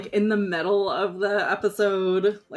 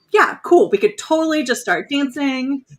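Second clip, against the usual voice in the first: excited; 5 dB louder than usual. Retold or imitated. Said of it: "So, like".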